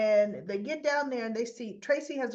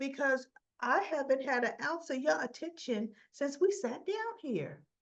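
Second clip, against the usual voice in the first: weak, bad put-on Southern accent; 4 semitones higher than usual. Retelling a man's answer to her question, imitating Martin's Southern accent. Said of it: "I can't get Martin's accent".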